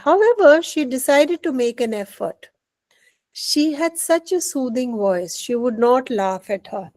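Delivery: measured classroom storytelling; story narration. A narrator's reading. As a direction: read slowly, lifting the first word. Reads the story aloud in English.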